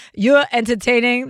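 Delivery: a hint of Brooklyn on "You're entertaining"; Brooklyn accent. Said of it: "That's my Brooklyn accent".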